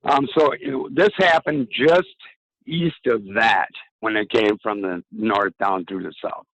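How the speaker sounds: strained, worn-out hoarse voice. Real, not acted. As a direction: voice going hoarse, losing it. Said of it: "I'm losing my voice".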